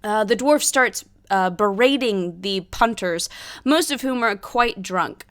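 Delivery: measured storyteller's scene-setting; game master narration. A narrator's reading. Game master describing a tavern fight pit, narration.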